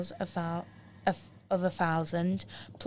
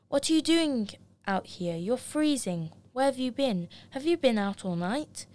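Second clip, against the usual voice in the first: higher, alarmed brotherly questions; worried surprise; 5 semitones higher than usual. Acted. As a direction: fire off startled worried questions.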